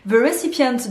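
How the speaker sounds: English in a French accent. Real, not acted. Vlogger quotes the shop's policy in English, French accent. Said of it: "mon superbe accent anglais".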